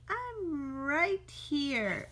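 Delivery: slow, teasing taunt; very slow singsong taunt. Acted. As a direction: drag it out to bait the cat. Squirrel taunts the cat.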